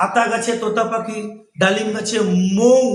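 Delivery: slow sing-song nursery rhyme; poem recitation. Shown as a demonstration. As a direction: recite it slowly for the class. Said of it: "ওখানে যেরকম বলছিলাম".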